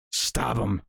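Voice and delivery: slow, drawn-out urging with a shouted edge; hammed-up cry to stab him; mock bloodthirsty. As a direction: egg on the fight, half laughing. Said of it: "being like".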